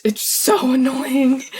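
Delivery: slow, laughing annoyance; laughing through it. Real, not acted. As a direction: giggle at your own yawning. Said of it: "My brain is just doing that".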